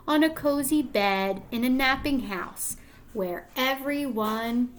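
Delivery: put-on gentle storybook read-aloud to young kids; reading to children. Reading picture book aloud.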